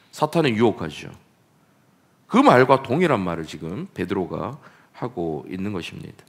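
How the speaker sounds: ordinary talk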